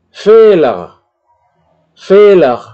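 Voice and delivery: Fehler with a long E, loud and high. Shown as a demonstration. Teacher models the long E to class. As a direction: stretch the E in Fehler. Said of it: "untuk memanjangkan vokal".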